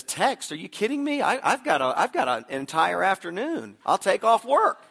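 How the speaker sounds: high, loud, eager outburst; wife's eager disbelief. Retold or imitated. Wife hears husband offer to confess his sins, loud eager disbelief. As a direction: play an incredulous wife jumping at the offer, pitch and volume up. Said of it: "She says".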